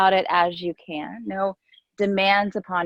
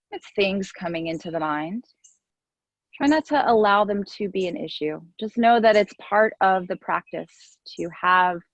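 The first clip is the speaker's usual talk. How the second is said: guided meditation. Real, not acted. Yoga teacher guiding the class into noticing the breath, gentle meditation voice. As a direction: ease them gently into each breath, leaving space between phrases.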